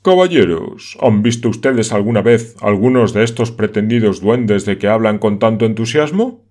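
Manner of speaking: loud, sharp cut-in; abrupt interruption. Acted. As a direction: cut the uncles off brusquely. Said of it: "interrumpido bruscamente".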